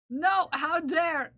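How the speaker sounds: loud, slow mock indignation; mock outrage. Streamer scolding viewers over a challenge, mock outrage. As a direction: play affronted, drawing it out.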